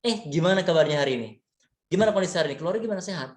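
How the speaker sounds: put-on quick, bright greeting to an old friend; friendly voice. Shown as a demonstration. Teacher demos friendly tone greeting a friend, friendly. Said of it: "layaknya kita berbicara dengan teman".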